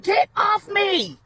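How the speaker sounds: high, drawn-out yell to get free. A narrator's reading. Portia tussling with Donovan, high insistent yell. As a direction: yell it high, stretching the words. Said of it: "Portia yelled".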